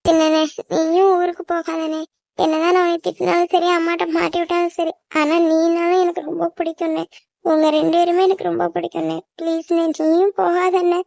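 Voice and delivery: affectionate plea through tears; tearful pleading. Acted. Younger sibling telling little-elder brother how much they love him, tearful. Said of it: "கண்ணீர் தண்ணி இவ்வளவு நேரம் நிக்காம வருதே".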